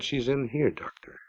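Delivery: a hint of a cold housekeeper; chill woman's voice. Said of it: "the chill voice of Emmeline said".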